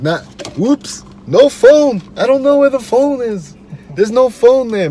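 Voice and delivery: high, loud mocking lifeguard voice. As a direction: play the lifeguard as a fake-innocent liar. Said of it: "Nigga be like".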